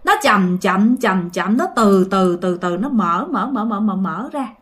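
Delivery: drawn-out slow telling. Shown as a demonstration. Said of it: "tưởng tượng nó mở từ từ vậy nè".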